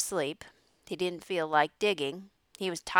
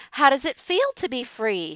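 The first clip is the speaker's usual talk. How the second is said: lightly voiced goose; 5 semitones higher, 6 dB louder than usual. A narrator's reading. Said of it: "she asked".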